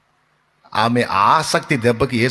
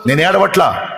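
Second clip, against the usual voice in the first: fiery preaching; 5 semitones higher than usual. Acted. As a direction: hammer each line home to the congregation. Preaches Mary's reply at full force.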